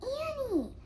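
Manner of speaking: high, loud call of her name; alarmed call across the hill. Acted. Jack calls out.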